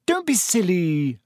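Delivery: short. A narrator's reading. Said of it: "said Hermione shortly".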